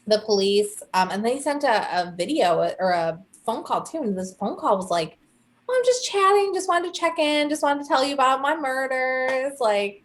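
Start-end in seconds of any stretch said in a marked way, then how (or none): 5.7-9.6 breezy, much higher mock-friendly voice; mock chatty killer. Killer phoning police, mock casual chatty tone. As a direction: play it light and cheery, like a social call. Killer's taunting phone call mocked.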